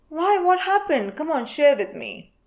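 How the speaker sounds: high eager prying voice; nosy fake concern. Gossip urging friend to spill, eager prying. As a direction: coax the story out of her. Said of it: "pretend to care about you".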